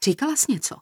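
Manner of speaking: high, cross question; angry. A narrator's reading. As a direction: ask it angrily, voice lifted. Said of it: "zeptala se Marta rozlobeně".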